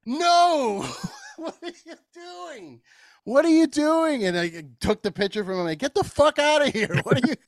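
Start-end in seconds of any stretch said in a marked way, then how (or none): 0.0-4.2 high, laughing mock yell; laughing outraged yell. Scolding the old dude chugging from the pitcher, high laughing yell. 5.8-7.3 high mock scolding yell; high exasperated yell. Sending the toothless old dude away, high mock yell.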